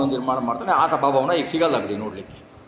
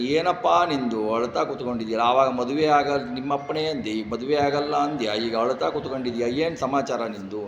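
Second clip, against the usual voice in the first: lower, softer, coaxing elder; gentle asking; 3 semitones lower, 3 dB quieter than usual. Acted. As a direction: softly ask what's wrong. Brahma gently asks crying Krishna.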